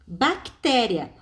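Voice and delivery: Bactéria drawn out very slowly, each syllable apart; slow classroom demo of Bactéria. Shown as a demonstration. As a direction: stretch out Bactéria slowly so students hear the split. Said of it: "Olha só o que aconteceu em bactéria".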